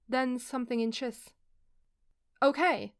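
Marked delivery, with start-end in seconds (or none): 2.4-2.9 startled high yelp of okay. Acted. Eli yelping as his wrist is crushed, startled and loud. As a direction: yelp it out, caught off guard. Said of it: "Eli yelped".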